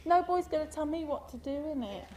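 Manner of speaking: lightly voiced cockney with Arabic accent; sassy London girl, Arabic accent; Arabic-accented London slang. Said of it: "Except with an Arabic accent".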